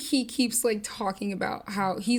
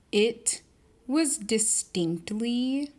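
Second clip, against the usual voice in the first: whisper; 4 semitones higher, much slower than usual. Real, not acted. Emphatic whisper.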